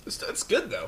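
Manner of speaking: hiccuping mid-sentence; words broken by a hiccup. Real, not acted. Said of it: "Oh, my hiccups are still here".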